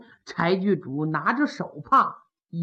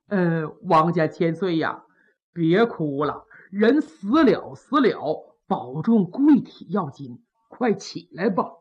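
put-on low, measured old-retainer voice; acted soothing, lowered pitch; gentle consoling; 5 semitones lower than usual. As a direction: coax a mourner to get up. Old servant consoles grieving prince.

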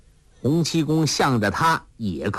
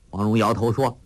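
plain reading voice

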